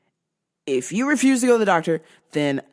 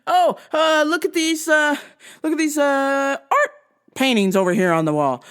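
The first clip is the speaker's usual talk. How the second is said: forced subject change; 5 semitones higher, 3 dB louder than usual. Retold or imitated. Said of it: "desperately tried to change the subject".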